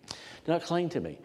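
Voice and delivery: a gentle smiling rebuke. Shown as a demonstration. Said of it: "I think he said it with a, a smile on his face".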